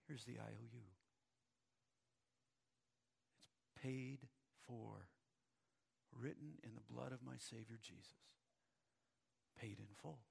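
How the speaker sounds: preacher quietly voicing the believer's answer; solemn quiet declaration. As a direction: let each word land.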